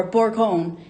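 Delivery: Bourgogne in French, with a guttural R; French pronunciation. Shown as a demonstration. Host introducing the French name of the region, French pronunciation. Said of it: "as in French as they say".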